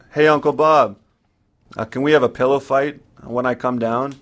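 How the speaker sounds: put-on eager child. Child calling his uncle excitedly.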